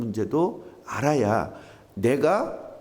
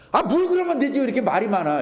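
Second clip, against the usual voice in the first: high-pitched, impatient outburst; impatient Gyeongsang type; 9 semitones higher, 4 dB louder than usual. Acted. Preacher mimicking a Gyeongsang person fed up with long explanations, impatient. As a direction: play the exasperated Gyeongsang person, voice jumping up. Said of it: "경상도 사람들 특징은 뭔지 아세요?".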